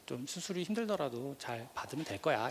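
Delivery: slow, calm imitated mother reassuring her son; calm reassurance. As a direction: slowly soothe him, as if nothing is wrong. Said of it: "아무렇지도 않게 태연하게". (천천히 태연하게 안심시키듯)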